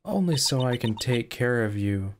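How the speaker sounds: slow, menacing receptionist; creepy voice. Acted. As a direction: draw each word out as a threat.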